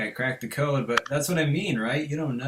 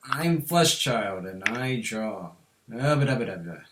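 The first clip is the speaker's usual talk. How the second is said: Flesh Child impression; 4 semitones lower than usual. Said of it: "You know Flesh Child? ... try that".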